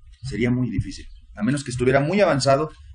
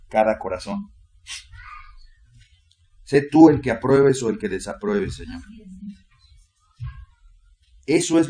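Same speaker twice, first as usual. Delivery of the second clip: fervent pleading prayer to the Lord; heartfelt congregational prayer; earnest prayer. Acted. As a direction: pray it earnestly, pausing on each Señor. Preacher leads opening prayer.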